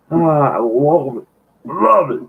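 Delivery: savoring it with pleasure; delighted. Real, not acted. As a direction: relish the words. Reader delighted aside.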